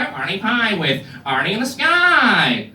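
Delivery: cartoon sky-reporter call, slow and loud; Arnie Pye. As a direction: stretch the last word like a show announcer. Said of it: "Remember this character from the show?".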